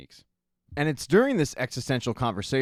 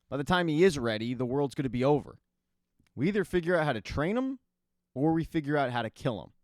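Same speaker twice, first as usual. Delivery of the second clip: raised, urgent voice, higher pitch; retold yelling; 4 semitones higher than usual. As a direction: push it out like a heated argument. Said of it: "Kessler yells back".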